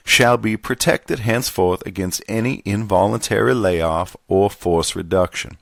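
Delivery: lightly voiced Southern gentleman accent. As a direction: read it formally with a hint of genteel Southern accent. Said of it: "back to the Southern gentleman".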